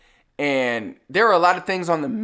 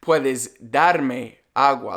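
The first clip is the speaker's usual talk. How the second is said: slowed Spanish request, each word clear; teacher modelling a polite order, slow and clear; slow, careful model phrase; 2 semitones lower, much slower than usual. Shown as a demonstration. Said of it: "but in Spanish, it's more of".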